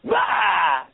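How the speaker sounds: hearing the lady praise Putin, imitated startled gasp; mock shock. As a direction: react as if caught off guard. His shocked reaction to her praise.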